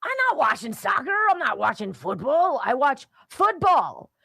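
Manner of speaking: high, emphatic imitation of a redneck; mock Florida redneck. Host imitating a Florida man who rejects soccer, mock redneck. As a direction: play a stubborn redneck, punching up high. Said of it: "Here's a Florida man".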